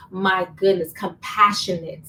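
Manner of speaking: slow, drawn-out "compassionate"; emphasizing compassionate. Real, not acted. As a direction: lean hard on compassionate. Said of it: "Let's emphasize on those two words".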